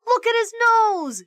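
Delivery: put-on high excited kid shout; loud high shout at the teacher's nose. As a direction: yell it out, pointing. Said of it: "shouted Eric Bacon".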